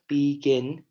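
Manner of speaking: "begin" with the weight on GIN; stressed last syllable. Shown as a demonstration. Teacher points out the gin sound, stress on last syllable. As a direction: lean on GIN at the end of "begin". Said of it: "it's stressed a little bit more".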